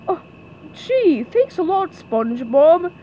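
loud, slow-ending cartoon oaf; Patrick. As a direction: say it as a put-out simple pal. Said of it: "Patrick adjusted his crown".

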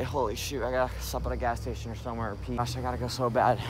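hurried, urgently needing to pee; needing the toilet. Real, not acted. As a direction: rush it like you're bursting. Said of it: "Gotta kinda take a pee".

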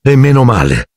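high-pitched, dry exclamation; curt. A narrator's reading. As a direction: put it curtly, as a brisk retort. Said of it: "esclamò seccamente la signora Weasley".

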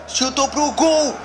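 sudden high yell at the shot; excited shout. Real, not acted. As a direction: shout it as the ball flies. Shot on goal in game. (grito empolgado)

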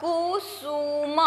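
कुसुम drawn out slowly and softly, each syllable clear; slow reading. Shown as a demonstration. Teacher reading कुसुम slowly for the class. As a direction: stretch out कुसुम for young readers. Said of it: "ये क्या word हुआ".

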